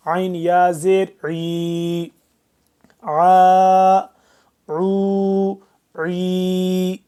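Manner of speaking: عا pulled hard from the throat, stretched; hard drawn ع. Shown as a demonstration. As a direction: model عا عو عی firmly from the throat. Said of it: "سختی سے کھینچ کے پڑھیں گے".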